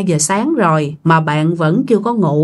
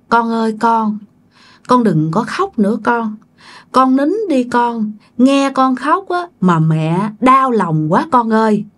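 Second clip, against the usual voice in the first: sweet soothing mother; 2 semitones higher than usual. Retold or imitated. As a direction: coax the child gently, a little eerie. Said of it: "nói chuyện ngọt mà nghe nói chuyện dễ thương quá".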